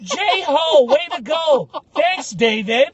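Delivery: high, loud cartoonish cheering; a delighted traveller cheering over his booked ticket; mock cheer. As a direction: cheer like a kid who got his prize. Continuing the cheer.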